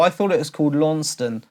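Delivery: Launceston said "LAWN-ston", as written; quick, the old mistaken Launceston; wrong pronunciation. Shown as a demonstration. Host confessing his old way: Launceston. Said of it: "but it's Lanson".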